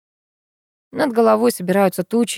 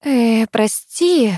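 apologetic with a cough; 3 semitones higher, much slower than usual. A narrator's reading. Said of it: "кашлянув".

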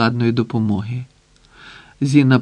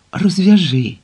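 eager plea; 6 semitones higher, 4 dB louder, slower than usual. A narrator's reading. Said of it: "і собі гаряче попрохав пузатий".

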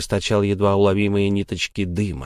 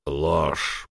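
low, soft rough verdict; rough voice from the corner; 6 semitones lower, 5 dB quieter than usual. Acted. Unseen creature in the corner rejects Sara's lie, rough. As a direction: growl it from the shadows. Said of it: "послышался грубый голос в углу".

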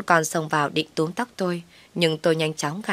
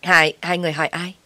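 flustered stammering question; startled stammer; 4 dB louder than usual. A narrator's reading. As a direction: stumble on the first word. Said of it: "Nói lắp bắp".

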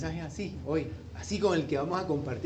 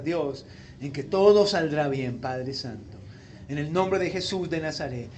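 prayer. Real, not acted. Leads a prayer.

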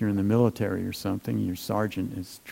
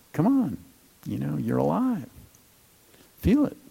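rising to much higher pitch, rousing yourself; self pep talk; 4 semitones higher than usual. Shown as a demonstration. Meditator rousing a dull mind, mock pep talk pitched high. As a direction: jolt yourself awake, climbing up on feel it. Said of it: "it's like".

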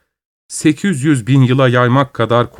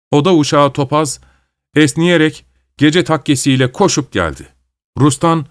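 plain reading voice

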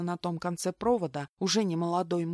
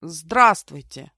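strained voice; 11 dB louder, much slower than usual. A narrator's reading. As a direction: squeeze the greeting out slowly. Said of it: "раздался сдавленный голос Виталика". (сдавленным голосом, медленно)

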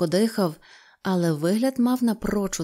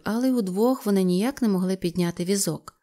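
usual speaking voice

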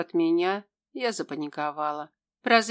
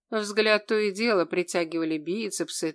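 ordinary delivery, nothing marked

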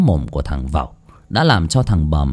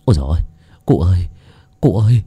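tongue-tied panic; faster than usual. Acted. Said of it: "líu cả lưỡi".

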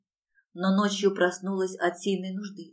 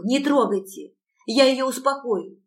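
higher, louder frantic begging; pleading; 5 semitones higher, 5 dB louder than usual. A narrator's reading. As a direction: plead frantically, pitch rising. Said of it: "взмолилась я".

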